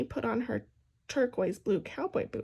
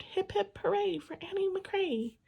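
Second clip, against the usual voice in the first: cheering in her mind; 9 semitones higher than usual. A narrator's reading. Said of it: "Inside her mind, she cheered".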